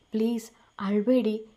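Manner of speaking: whispered plea, barely voiced; tender whisper. A narrator's reading. Husband hushes his crying wife, in a tender whisper. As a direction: breathe it to her gently.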